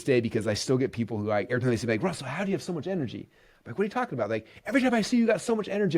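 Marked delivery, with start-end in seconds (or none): 2.0-3.3 higher-pitched marveling question; mock-baffled fan voice; imitated amazement. 3.8-4.3 high, incredulous question; retold bewildered reply, pitched up; mock bafflement. Acting his puzzled reply. 4.7-6.0 high, gushing fan voice; retold wide-eyed wonder; imitated amazement.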